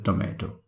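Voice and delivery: Indian "tomato", "ay" vowel and a clear t; Indian pronunciation. Shown as a demonstration. Teacher recapping the mixed Indian version, "tomato" as "toh-MAY-toh". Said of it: "we try to combine both".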